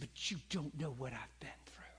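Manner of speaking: quiet unvoiced whisper; lady's retort. A lady snapping back at the preacher, whispered. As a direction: breathe it out like a hurt woman. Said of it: "A lady said".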